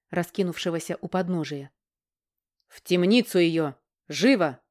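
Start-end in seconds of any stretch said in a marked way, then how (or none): 2.7-4.6 a hint of a barking king; tyrant king. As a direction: bark the order like a lightly voiced tyrant. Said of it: "рявкнул король".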